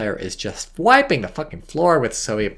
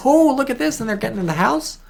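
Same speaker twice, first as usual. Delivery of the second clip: higher, louder excited exclamation; 14 semitones higher, 6 dB louder than usual. Real, not acted. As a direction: jump up at the surprising move. Caster reacts to surprise play.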